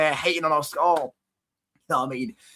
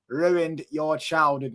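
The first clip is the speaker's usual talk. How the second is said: slow taunt; much slower than usual. Real, not acted. Taunting rival fan.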